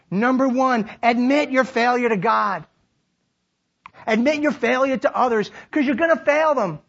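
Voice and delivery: high, driving sermon delivery; rousing, declamatory preacher; full-force preaching. Real, not acted. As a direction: preach it out to the whole room.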